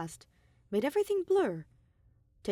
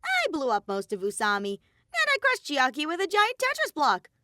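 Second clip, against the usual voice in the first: high, loud cartoon bear voice; louder, higher bratty bear mascot; Monokuma voice; 8 semitones higher, 6 dB louder than usual.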